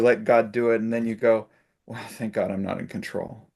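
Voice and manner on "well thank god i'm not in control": relieved sigh. Retold or imitated. Relieved quip after letting go.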